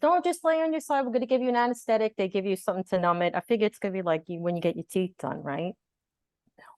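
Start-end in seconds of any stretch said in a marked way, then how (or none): 0.0-2.2 doctor's instruction. Retold or imitated. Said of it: "he goes".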